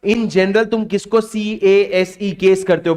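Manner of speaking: slow and careful repeat. Shown as a demonstration. Teacher re-asking his class slowly after stumbling on केस. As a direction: say it again slowly so nobody mishears केस. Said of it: "मेरे थोड़ा सा हकला गया होऊंगा".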